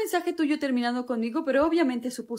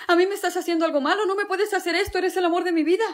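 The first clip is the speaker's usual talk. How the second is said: desperate pleading; 5 semitones higher, 3 dB louder than usual. Acted. Dumped lover protests.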